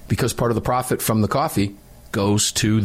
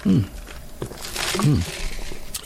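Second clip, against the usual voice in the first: sipping hum; 3 semitones higher, 5 dB quieter than usual. Real, not acted. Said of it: "Let me take a quick sip of Defender coffee".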